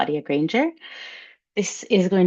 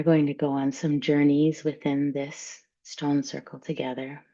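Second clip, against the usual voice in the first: guided meditation. Acted. Guided visualisation in stone circle.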